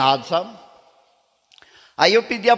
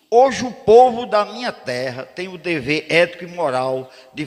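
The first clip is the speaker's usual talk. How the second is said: courtroom oratory. Retold or imitated. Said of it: "Aí eu disse".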